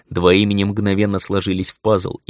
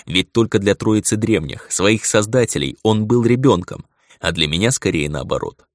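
ordinary delivery, nothing marked

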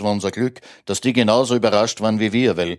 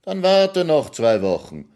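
raised-pitch dismissive order; crying out; 7 semitones higher, slower than usual. A narrator's reading. Master makes the seasonal worker wait, crying out. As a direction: cry it out high at the servant. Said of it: "schrie der Herr".

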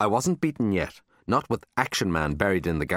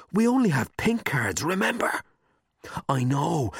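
put-on much higher young boy voice; high-pitched boy; 9 semitones higher than usual. A narrator's reading. A boy reminds Marty about pink cards, high worried voice. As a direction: squeak it up high like a worried kid. Boys arguing in library.

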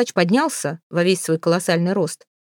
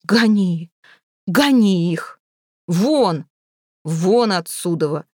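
mild booming shout; a touch of thunderous order; thundering roar; much slower than usual. A narrator's reading. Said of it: "заорал громовой голос усача". (слегка громовой окрик)

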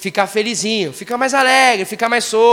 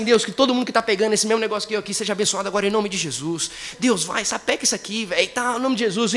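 quick casual blessing. Retold or imitated. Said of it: "eu falava assim".

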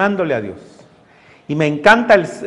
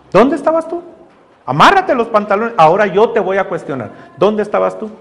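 God challenging Job. Retold or imitated. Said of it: "El Señor le dice".

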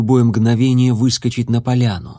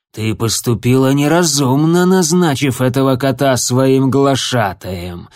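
growled warning. Acted. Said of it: "рыкнул он".

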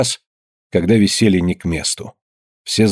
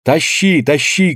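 higher urging shouts; women dragging him, higher urging cries; crowd shouting; 5 semitones higher, slower than usual. A narrator's reading. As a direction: egg the others on. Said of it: "кричали со всех сторон".

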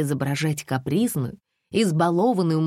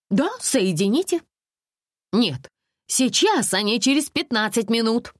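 higher, huffy indignant complaints; making a scene; 7 semitones higher than usual. A narrator's reading. Alisa makes a phone scandal with the tour manager, huffy and high. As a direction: threaten like a spoiled customer. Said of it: "Алиса была готова к скандалу".

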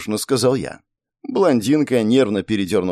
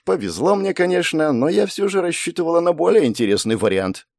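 sad; 7 semitones higher than usual. A narrator's reading. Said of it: "грустно произнесла блондинка".

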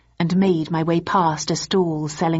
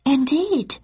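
admitted; 9 semitones higher than usual. Acted. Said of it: "admitted Missus Nakajima".

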